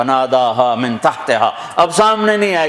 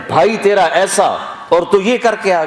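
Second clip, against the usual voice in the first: taunting; 5 semitones higher than usual. Acted. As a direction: sneer it at her like a scandalized crowd. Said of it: "تو تانا دے رہے ہیں".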